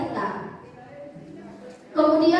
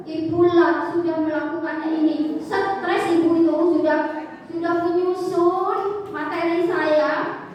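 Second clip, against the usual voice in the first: dramatic guilt trip. Retold or imitated. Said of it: "dibuat sedramatis mungkin".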